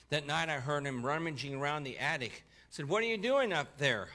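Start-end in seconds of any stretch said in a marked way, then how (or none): 2.9-4.1 raised, carrying holler. Retold or imitated. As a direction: call up loudly to the attic.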